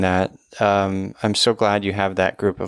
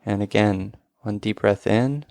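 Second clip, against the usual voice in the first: guided breathing. Acted. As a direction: lead the breaths gently. Leads a breathing exercise.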